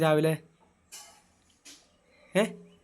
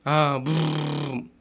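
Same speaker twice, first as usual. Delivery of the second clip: car sound; much slower than usual. Shown as a demonstration. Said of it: "ഒന്നര വണ്ടിയാ?".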